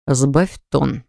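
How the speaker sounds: a low steady warning, lightly voiced; warning rumble. Brother cuts in to calm Artur, low warning. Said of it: "прогудел предостерегающе".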